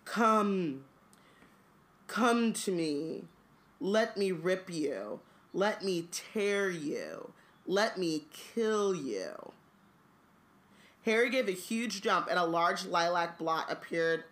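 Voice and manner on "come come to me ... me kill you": sinister voice. Acted. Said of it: "he heard something".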